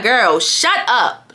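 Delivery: slow, drawn-out exasperation; irritated. Retold or imitated. Telling the yapping friend off, irritated. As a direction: stretch out each word, fed up. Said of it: "So I'm getting irritated".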